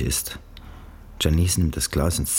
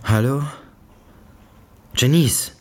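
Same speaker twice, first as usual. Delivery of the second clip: hoch gerufenes Hallo der Mutter; Mutter am Telefon; 9 semitones higher, 5 dB louder than usual. A narrator's reading. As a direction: ruf fragend in den Hörer. Mutter ruft ins Telefon. (Mutter ruft ins Telefon, hoch und fragend)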